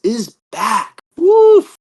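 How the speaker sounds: breathless, loud huff; out of breath. Real, not acted. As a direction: puff it out, short of breath. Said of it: "I'm running out of breath here".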